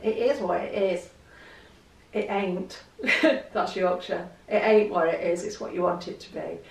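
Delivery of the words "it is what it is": mild mock broad Nottingham accent; a hint of the broad Nottingham accent as she quotes her friend. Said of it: "she says it with this broad Nottingham accent".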